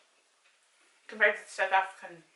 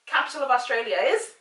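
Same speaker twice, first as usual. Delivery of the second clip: loud, higher quiz question; quizmaster; 3 semitones higher, 9 dB louder than usual. Acted. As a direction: fire the question at mum like a quiz host. Quizmaster asking mum.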